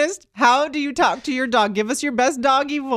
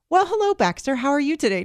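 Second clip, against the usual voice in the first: not the doggy voice; 3 semitones higher than usual. Retold or imitated. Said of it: "you're not like".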